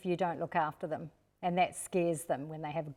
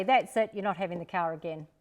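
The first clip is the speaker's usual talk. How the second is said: mock-stern parent ending it; a hint of an angry parent taking away the car; curt snap. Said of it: "rather than just say".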